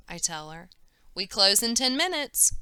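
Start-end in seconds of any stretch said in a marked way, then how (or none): 1.1-2.5 bellowing. A narrator's reading. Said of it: "Mister Wong bellows".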